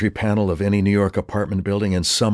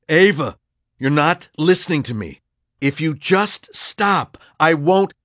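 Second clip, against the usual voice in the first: desperate pleading; 10 semitones higher, 4 dB louder than usual. Acted. Pleading with raging Ava.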